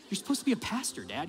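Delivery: high-pitched imitation of a kid stating the obvious; mock little-girl disbelief; incredulous child. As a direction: chide dad as if he asked something dumb. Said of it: "looked at me like that was the dumbest question".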